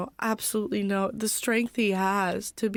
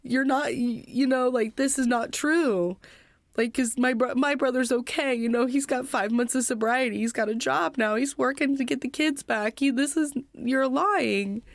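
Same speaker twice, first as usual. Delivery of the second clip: mild retold outburst, pitched higher; higher-pitched, understated angry denial; retold mad screaming; 4 semitones higher than usual. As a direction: protest in upset disbelief, without really screaming. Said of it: "I just started screaming at her".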